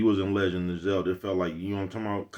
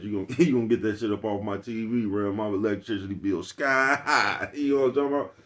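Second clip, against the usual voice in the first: laughing, louder fussing parent about the TV; mock scolding parent; 3 dB louder than usual. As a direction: play the fed-up parent through laughter.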